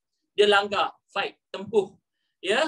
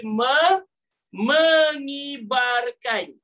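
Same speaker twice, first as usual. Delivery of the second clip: mengibarkan dragged out very slowly and louder; slow spelled-out word; 2 semitones higher, 4 dB louder, much slower than usual. Shown as a demonstration. Teacher recapping the spelling slowly for students. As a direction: stretch mengibarkan syllable by syllable. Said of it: "ejaan dia apa tadi".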